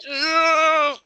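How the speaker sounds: loud, high whoop of excitement; re-enacted cheer. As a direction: cheer like you just jumped up clapping. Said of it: "stood up ... started clapping and I was like".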